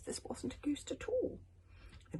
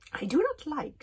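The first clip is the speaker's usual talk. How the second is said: 1 dry icy witch voice; 9 semitones higher, 10 dB louder than usual. A narrator's reading. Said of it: "her voice as dry as ice".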